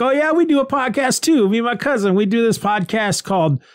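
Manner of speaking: a hint of a high, eager guy voice; eager tow guy. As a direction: lightly play the chipper stranger. Eager guy bragging about podcast.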